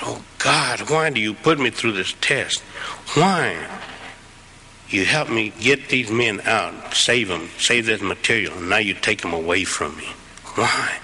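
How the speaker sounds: pleading with God, voice breaking; anguished prayer. Retold or imitated. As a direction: cry out why to heaven. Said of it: "And I was crying".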